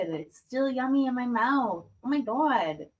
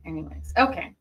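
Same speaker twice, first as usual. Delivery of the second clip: whispering; 5 semitones lower, faster than usual. Real, not acted. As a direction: breathe it as a whisper. ASMR talk, whispering.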